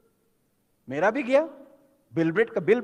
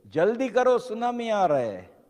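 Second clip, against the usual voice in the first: imitated distant shout; 3 semitones higher than usual. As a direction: call out as if from far away, without full force. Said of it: "कोई चिल्ला रहा है दूर से". (दूर से चिल्लाने की नकल)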